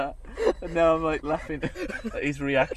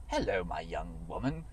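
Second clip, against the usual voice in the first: a lower, lightly voiced English gentleman in a top hat; posh English gentleman; 4 semitones lower, 3 dB quieter than usual. Wooing a lady as a top-hatted English gentleman, low and lightly posh. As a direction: play a lightly posh English gent offering chips. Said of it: "as a proper English gentleman".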